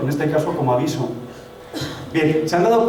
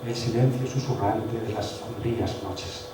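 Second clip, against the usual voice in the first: slow, soft, hushed poetic reading; soft, slow dreamy poem voice; poetic recitation; 5 semitones lower, 10 dB quieter, slower than usual. Shown as a demonstration. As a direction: breathe it out like a romantic poet. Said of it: "como muy poético".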